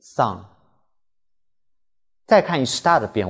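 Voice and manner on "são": "são" with a nasal ão diphthong. Shown as a demonstration. Teacher to students, demonstrating the nasal "são". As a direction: push "são" through the nose. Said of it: "são带鼻音".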